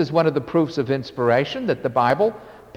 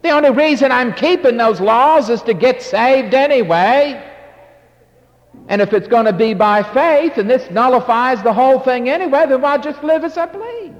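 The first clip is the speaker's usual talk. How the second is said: rising, louder mock objection; imitating Jewish objector; 5 semitones higher, 4 dB louder than usual. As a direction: voice the objector getting worked up. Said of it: "You're thinking".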